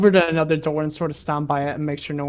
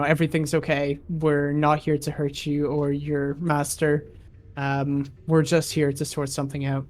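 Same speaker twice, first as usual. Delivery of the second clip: reassuring; 5 dB quieter than usual. Acted. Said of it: "try and reassure her".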